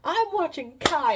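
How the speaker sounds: loud, slow, laughing no; laughing dismissal. Retold or imitated. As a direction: toss it off through a laugh. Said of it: "she's like".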